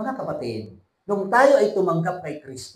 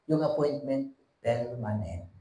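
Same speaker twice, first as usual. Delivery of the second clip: soft, weighty close; 4 semitones lower, 5 dB quieter than usual. Acted. Preacher softly sealing the point to church. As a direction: drop to a softer, lower voice. Rhetorical contrast, dropping.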